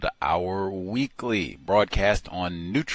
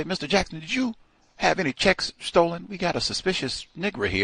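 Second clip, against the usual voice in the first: inquire with mock suspicion, pitched up; suspicious caller; 8 semitones higher, faster than usual.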